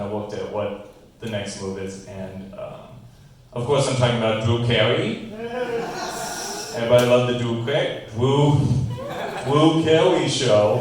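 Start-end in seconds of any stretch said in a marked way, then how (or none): 3.5-10.8 gushing fan. Pretend.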